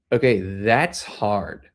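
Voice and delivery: mid-sentence pause to size it up, slowly; older brother's verdict. Retold or imitated. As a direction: lightly act out the brother, drawn out and low. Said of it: "I'm playing his older brother".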